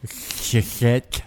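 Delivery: "shit" with a soft sh, slightly whispered start; "Sh- shit" eased in quietly; lisped shit. Shown as a demonstration. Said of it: "how do you say shit".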